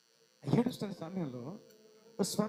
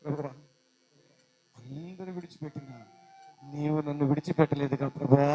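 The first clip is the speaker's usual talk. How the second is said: prayer; 5 semitones lower, 9 dB louder than usual. Acted. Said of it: "అని ప్రార్థన చేసింది".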